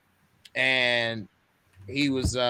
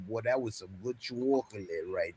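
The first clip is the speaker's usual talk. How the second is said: laughing mock reminiscence; 3 semitones lower, 4 dB louder than usual. Voicing reminiscing son, laughing.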